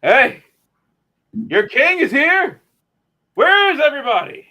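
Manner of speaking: high loud pompous king; grand boastful announcement; arrogant villain. Retold or imitated. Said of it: "He's like".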